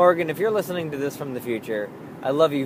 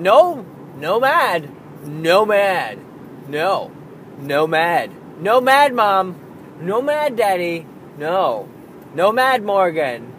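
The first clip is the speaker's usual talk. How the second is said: imitating a small child, higher and louder on mad; toddler pleading; 4 semitones higher, 4 dB louder, slower than usual. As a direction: chant it like a worried toddler. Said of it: "Asa and I are very much like".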